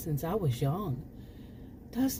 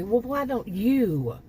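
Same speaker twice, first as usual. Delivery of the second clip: louder, slower, pointed comeback; indignant retort; 5 semitones higher, 5 dB louder, slower than usual. Real, not acted. Firing back at the absent pharmacist, indignant. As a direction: throw the question right back.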